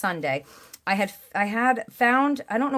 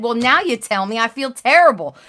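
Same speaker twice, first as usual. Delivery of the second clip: dismayed exclamation; 3 semitones higher, 9 dB louder than usual. Retold or imitated. Retold reaction to divorce news.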